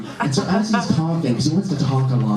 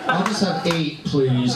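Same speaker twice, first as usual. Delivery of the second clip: mock Octomom; slower than usual. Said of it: "Like the Octomom".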